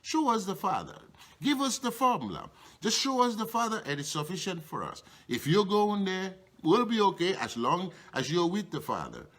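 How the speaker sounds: begging to be shown, eager and quick; eager Philip. Retold or imitated. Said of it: "So Philip just said".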